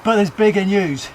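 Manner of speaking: urgent breaking news read; lightly voiced TV newsreader; news anchor. Self as news presenter.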